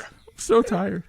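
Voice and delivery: high, stretched-out slow motion voice. Pretend. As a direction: drag every word like a slowed tape. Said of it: "speaking in slow motion".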